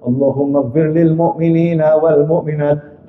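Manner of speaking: a low, steady khutbah prayer line; prayer recitation. Shown as a demonstration. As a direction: recite it low and even like the khatib. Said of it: "Semuanya dimintakan ampun".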